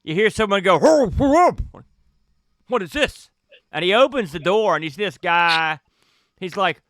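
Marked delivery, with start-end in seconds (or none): 0.8-3.3 high startled whoa. Acted. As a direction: yelp it in surprise. GM voices startled passenger.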